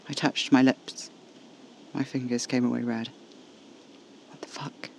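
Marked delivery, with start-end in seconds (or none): 4.3-4.9 very soft, unvoiced whisper; barely audible, breathy whisper. A narrator's reading. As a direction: whisper it to yourself in shock. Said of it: "I whispered".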